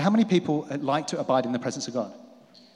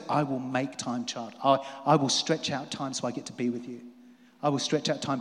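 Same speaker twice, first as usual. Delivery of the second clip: lower, softer and gentle; tender father voice; 3 semitones lower, 4 dB quieter than usual. Acted. God the Father reassuring his child, tender. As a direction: soothe a child with a promise. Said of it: "And he goes".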